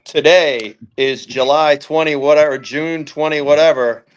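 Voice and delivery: slow, measured impersonation of a pundit; Grant Cohn. Acted. Caller mimicking a football podcaster for the group, slow impression. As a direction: deliver it slowly, word by word, as an impression. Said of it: "do my favorite Grant Cohn impersonation".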